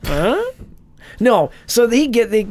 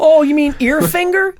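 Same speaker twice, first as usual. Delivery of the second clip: mock surprise; 11 semitones higher, 6 dB louder than usual. Mocking a rival agent.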